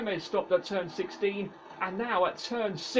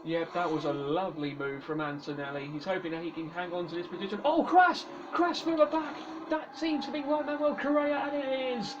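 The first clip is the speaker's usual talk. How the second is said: motorsport commentator; faster than usual. Acted. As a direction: lively race play-by-play. Live race play-by-play.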